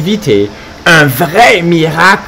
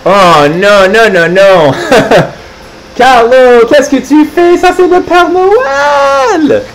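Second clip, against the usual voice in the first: much higher, slower shocked scolding; mock scolding; 7 semitones higher, slower than usual. Reader scolding Carlo for biting Santa. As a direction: laugh then scold the naughty pug.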